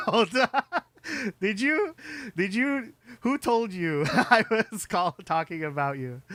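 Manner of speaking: high, laughing disbelief; surprised laughing. Real, not acted. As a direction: react in startled amusement. Surprised chat reaction, laughing.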